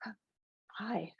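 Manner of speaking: nervous hi with a breaking voice; voice cracking. A narrator's reading. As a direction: let the voice crack on hi. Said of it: "my voice cracks".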